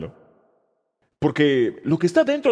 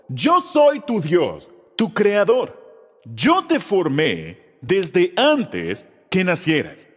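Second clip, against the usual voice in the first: emphatic group recitation; much slower than usual. Shown as a demonstration. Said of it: "¿Están listos?".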